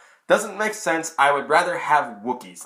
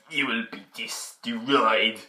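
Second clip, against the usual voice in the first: Emperor threat; 3 semitones lower, 4 dB quieter, much slower than usual. Retold or imitated. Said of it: "He's like".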